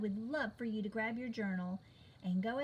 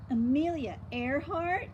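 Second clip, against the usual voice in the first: mocking question; 5 semitones higher, 6 dB louder than usual. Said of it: "asked Peppermint Patty".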